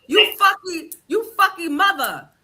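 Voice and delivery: hammed-up copy of a heated gas-station argument; mock cursing. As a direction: spit out the curses like the guy in the clip, half laughing. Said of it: "They just be going".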